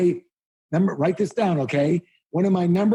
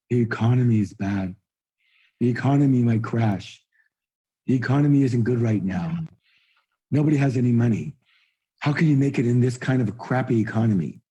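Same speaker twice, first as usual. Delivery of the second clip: mock broke person; 6 semitones lower, faster than usual. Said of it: "here's a phrase the broke person will use".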